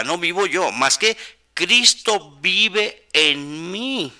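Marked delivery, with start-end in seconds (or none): 1.5-4.1 "Cristo vive en mí" drawn out very slowly, word by word; preacher's slow, weighty stress on "Cristo vive en mí"; emphatic key phrase. Real, not acted. Preacher hammers the verse's key words.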